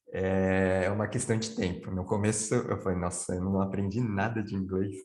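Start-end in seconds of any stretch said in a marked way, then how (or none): none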